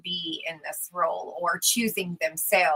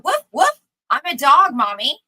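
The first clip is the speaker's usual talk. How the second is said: a light toddler playing dog, louder and higher; playful toddler voice; 6 semitones higher, 9 dB louder than usual. Describing toddlers to a podcast guest, lightly voiced pretend-dog child. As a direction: bark then chirp it like a little kid.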